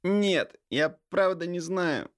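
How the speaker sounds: high whimpering denial. A narrator's reading. Vitalik whimpers to his brother, high whining. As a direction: whimper it shielding your face. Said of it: "захныкал Виталик".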